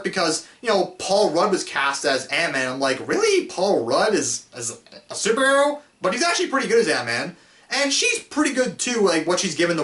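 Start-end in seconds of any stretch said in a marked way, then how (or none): 3.1-5.8 incredulous. Retold or imitated. Recalls doubting the casting.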